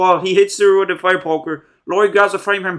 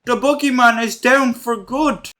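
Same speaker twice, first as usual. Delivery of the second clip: higher, relieved mock celebration; hammed-up relieved joy, higher pitch; mock relieved cheer; 5 semitones higher than usual. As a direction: cheer like they finally won. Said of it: "walking out so relieved".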